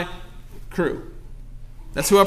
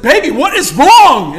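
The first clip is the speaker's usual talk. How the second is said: urgent; 3 semitones higher, 8 dB louder than usual. Retold or imitated. Husband urgently asks crying wife.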